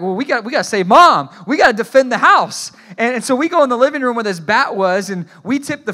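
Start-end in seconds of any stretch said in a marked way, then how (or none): 0.0-2.7 mock heroic resolve. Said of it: "we're like".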